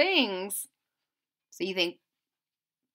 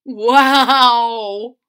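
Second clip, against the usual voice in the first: loud amazed wow; exclaiming; 12 dB louder than usual. Acted. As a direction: gasp it out in wonder. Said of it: "exclaimed Orange Maple".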